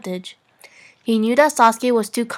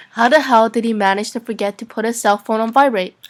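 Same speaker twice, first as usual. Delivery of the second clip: starting with a laugh. Real, not acted. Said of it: "Say the sentence over".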